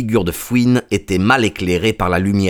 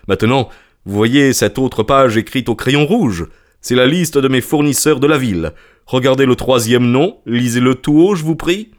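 raised, pressing merchant's voice; testy merchant; 4 semitones higher than usual. Acted. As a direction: order a doubter to read.

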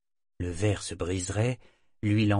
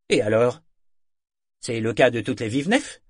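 Fjord, complaining companion; 2 semitones higher, 7 dB louder than usual. A narrator's reading. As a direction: whine about the fall and the bleeding knee. Fjord retorts.

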